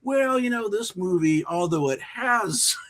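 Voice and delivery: high, sing-song disclaimer voice, with a laugh in it; lilting high mock-polite explanation, laughing midway; mock careful disclaimer. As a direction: play the apologetic filmmaker gently breaking the news. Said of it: "So you gotta be like".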